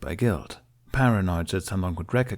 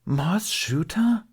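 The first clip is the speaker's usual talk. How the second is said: slow, higher, breathless whisper of alarm; hissed whisper; 12 semitones higher, much slower than usual. Acted. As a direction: hiss "Mos Chuta?" in a shocked whisper. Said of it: "Terran hissed".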